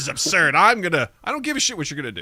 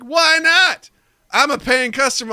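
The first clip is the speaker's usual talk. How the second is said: louder, higher indignant protest; indignant pimp; 10 semitones higher, 6 dB louder, slower than usual. Retold or imitated. Pimp arguing with the hotel clerk, indignant and loud. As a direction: push back like an entitled customer. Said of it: "It's like".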